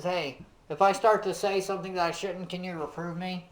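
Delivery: soft, gentle asking; a humble friend asking for help, gently; gentle request. Retold or imitated. Preacher voicing Wesley's humble request to the officer, soft and gentle. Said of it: "that's a really gentle way to do it".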